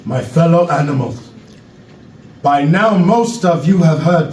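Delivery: put-on measured speech in an African accent; Knowledge, African accent. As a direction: address the crowd gravely with an African accent. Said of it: "African accent".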